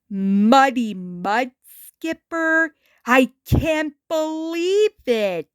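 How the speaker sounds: slow, starstruck gush; gushing with glee. Acted. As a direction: meet your hero and melt a little. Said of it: "he gushed with glee".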